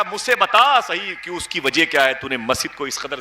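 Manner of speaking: high, pressing demand for an answer; acted angry interrogation of a wrongdoer; retold scolding. Man questioning the cleric about the mosque, scolding. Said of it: "بہت ڈانٹا".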